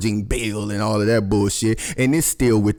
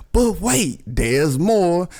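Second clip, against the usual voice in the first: much higher, hammed-up TV salesman voice; mock infomercial pitchman; 6 semitones higher, much slower than usual. Host hyping another logo to viewers, high hammed-up pitchman voice. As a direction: pitch it like a cheesy late-night ad. Infomercial catchphrase, second time.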